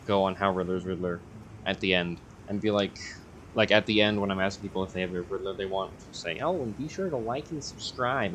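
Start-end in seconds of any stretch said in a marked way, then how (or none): 6.4-8.3 nerd voice. Pretend. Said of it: "I'm doing that with, like, the, the nerd voice".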